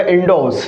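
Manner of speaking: "इंडोस" with no r sound; correct pronunciation. Shown as a demonstration. Teacher repeats for students the correct "इंडोस", r silent. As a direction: say "इंडोस" with long o straight into s. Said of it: "ये बोला जाएगा".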